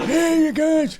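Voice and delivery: high goofy "Hey, you guys"; high mock greeting. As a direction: squeak it out playfully.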